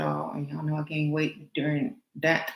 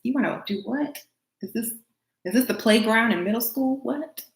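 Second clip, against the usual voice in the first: higher, incredulous what-the-heck; teasing incredulity, higher pitched; mock disbelief; 5 semitones higher than usual. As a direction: act floored by a playground threat. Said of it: "I'm like".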